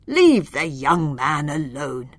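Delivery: stern wizard. Acted.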